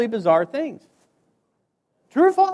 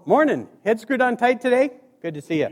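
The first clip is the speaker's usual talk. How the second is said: imitating the boss. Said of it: "he called it greeting the troops".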